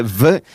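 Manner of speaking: V as a drawn-out fricative, almost like an F. Retold or imitated. Host imitating a singer's pronunciation, fricative V almost like F. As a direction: say V with friction, nearly an F. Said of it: "casi como una F".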